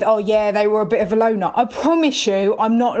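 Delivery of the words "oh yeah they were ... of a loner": quick crime-show quote. Retold or imitated. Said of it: "all those crime things always start with".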